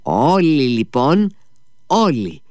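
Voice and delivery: rally the whole table; calling out. A narrator's reading. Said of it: "φώναξε ο Μήτια".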